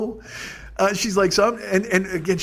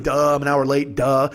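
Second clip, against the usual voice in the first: mock dumb self; 5 semitones lower than usual. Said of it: "I'm just like".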